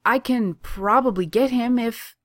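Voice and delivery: high, loud, anxious offer; nervous. A narrator's reading. New kid Brandon offering to fetch Kaner, nervous. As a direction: rush it out nervously. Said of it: "says Brandon nervously".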